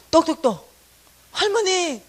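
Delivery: knocking and calling out loud and high. Retold or imitated. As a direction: call grandma through the door. 문 두드리며 부름. (문 두드리며 할머니를 크게 부르는 소리)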